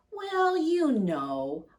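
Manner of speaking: hushed parent at bedtime, whispering. Acted. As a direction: lean in and whisper it slowly.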